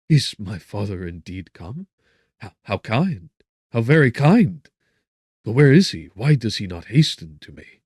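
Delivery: overjoyed, bursting with hope; eager joy. A narrator's reading. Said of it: "relaxed from anguish to pleasure".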